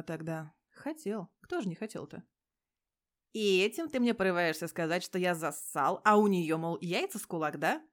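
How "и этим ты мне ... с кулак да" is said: loud, defensive questioning; loud prickly challenge; offended challenge. Acted. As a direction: demand an answer, stung. Petya challenges Igor, offended.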